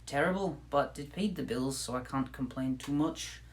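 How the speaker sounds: light Irish-Scottish lilt; Irish slipping into Scottish. Pretend. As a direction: chat in Irish and drift toward Scottish. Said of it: "I'm slipping into Scottish a little bit".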